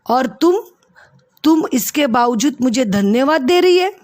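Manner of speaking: an indignant half-shout at Julia; near shout. Acted. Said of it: "लगभग जोर से चिल्लाते हुए कहता है". (ऊँची आवाज़ में हल्की नाराज़ डाँट)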